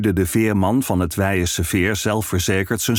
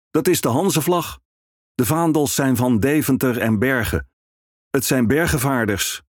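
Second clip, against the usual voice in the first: knowing ferryman; 5 semitones higher than usual. Acted. Ferryman explains.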